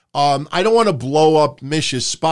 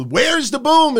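mocking quote; 10 semitones higher, slower than usual. Mocking Jarrett's catchphrase.

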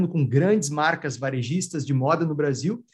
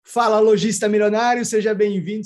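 energetic greeting; 3 semitones higher, 4 dB louder than usual. Acted. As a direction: greet the audience with big energy. Podcast host's opening greeting.

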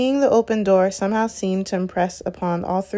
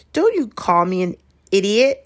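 defiant; 2 semitones higher, 4 dB louder than usual. Acted. Neville hurt, defiant.

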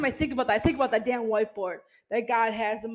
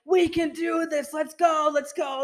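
higher, pumped-up hype man calling out; hyped motivational voice; 4 semitones higher than usual. Retold or imitated. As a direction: fire up the crowd, mock-cheering. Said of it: "I'm very motivational".

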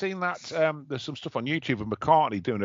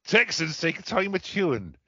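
higher and louder, hammed-up advert cowboy, slowing at the end; cowboy catchphrase; 7 semitones higher, 3 dB louder than usual. Redoing the Texan bar slogan for friends in a hammed-up cowboy voice. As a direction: belt out the old advert slogan like a cartoon cowboy. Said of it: "Yeah, yeah".

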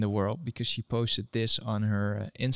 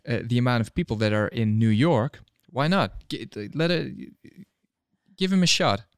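excited; 4 dB louder than usual. Real, not acted. Pushing his pitch for Yang.

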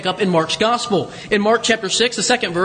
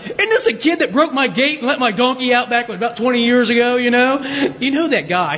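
grumpy neighbor. Retold or imitated. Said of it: "Berkowitz speaks up and says something like".

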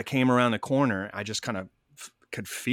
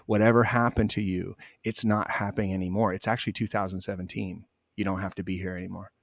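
gentle reassurance. Retold or imitated. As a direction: soothe a frightened ghost. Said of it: "And I said".

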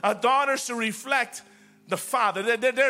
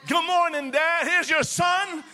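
higher, eager greeting to Dad; joyful greeting; 7 semitones higher than usual. Shown as a demonstration. Son greeting his heavenly Father, joyful and raised. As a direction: lift it with delight. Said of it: "You got to say".

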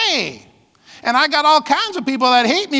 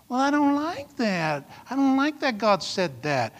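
mock complaint; 7 dB quieter than usual. Voices complaining believers, then rebukes.

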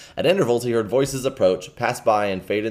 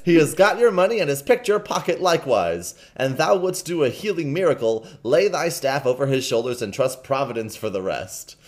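put-on accusing boy; 4 semitones higher than usual. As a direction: denounce the thief. King exposes Hugo.

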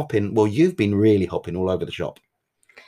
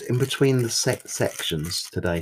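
stutter. Real, not acted. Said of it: "You stuttered on sections".

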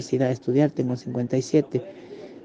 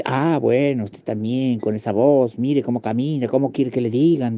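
lightly voiced preceptor, reaffirming the insult; a touch of a stern woman's rebuke; firm, forceful retort. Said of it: "y fuerte, hasta en un tono como reafirmando".

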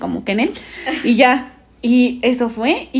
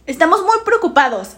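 mock alarmed teacher, a touch higher; teacher's voice; 4 semitones higher than usual. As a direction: play the worried teacher announcing. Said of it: "tú sabes que ella no hablaba así".

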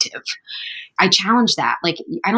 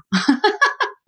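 light laugh; 14 semitones higher than usual. Real, not acted. Laughing after modest reply.

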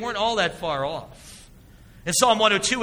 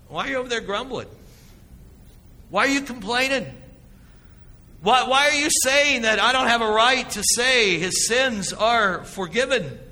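higher, pointed questions; challenging Jesus; 5 semitones higher, 3 dB louder than usual. Acted. Jesus turning to the grumbling scribes, challenging. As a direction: confront them, pressing each why.

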